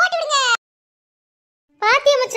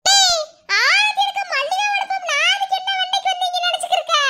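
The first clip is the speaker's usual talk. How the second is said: higher-pitched, indignant outburst; indignant scolding; 5 semitones higher than usual. Acted. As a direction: call out sharply and tell them off. Quarrel over money for aarti.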